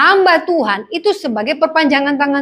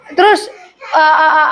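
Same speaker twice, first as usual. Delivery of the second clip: laughing. Real, not acted. Laughs at the car remark.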